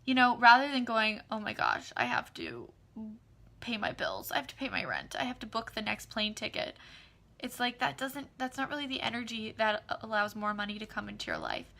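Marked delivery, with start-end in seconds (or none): 1.3-6.8 glum worry. Retold or imitated. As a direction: sigh through the bills. Contrast: worried bill-paying voice.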